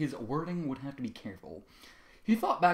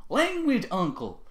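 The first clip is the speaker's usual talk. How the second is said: scolding; 10 semitones higher, 4 dB louder, much slower than usual. Acted. Bloom scolds again.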